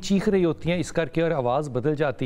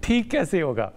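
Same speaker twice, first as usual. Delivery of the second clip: pleading question; 6 semitones higher than usual. Retold or imitated. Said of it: "मैंने कहा कि".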